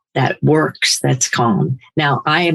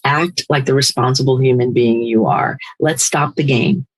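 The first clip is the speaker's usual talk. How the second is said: firm. Retold or imitated. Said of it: "getting very firm and saying".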